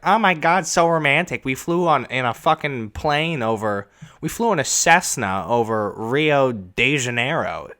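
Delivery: high, breathless gush that fades; lightly mocking swoon over a fancy date; mock gushing contestant. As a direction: ham up a starry-eyed dater.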